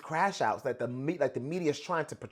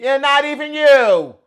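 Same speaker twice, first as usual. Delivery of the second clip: retold line; 7 semitones higher, 13 dB louder, slower than usual. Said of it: "It says the girl".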